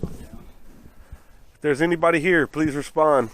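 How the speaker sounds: slow, loud call into the dark; calling out to spirits. Pretend. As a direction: address the ghosts solemnly. Calling out to spirits in EVP session.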